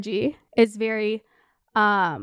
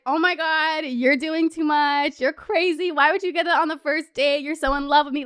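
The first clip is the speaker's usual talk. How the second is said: mocking teasing; 3 semitones higher than usual. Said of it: "kind of making fun of him".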